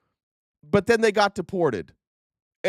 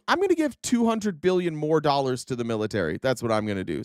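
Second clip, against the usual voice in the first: mock Trump; 7 semitones lower than usual. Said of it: "says Trump".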